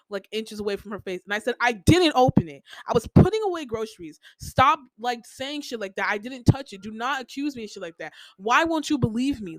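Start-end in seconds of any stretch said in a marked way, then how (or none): 1.6-9.6 retold yelling. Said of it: "Like, I was screaming at her".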